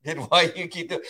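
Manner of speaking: high, pleading confused dog. Acted. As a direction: voice a baffled dog questioning its trainer. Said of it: "I'm like that confused dog".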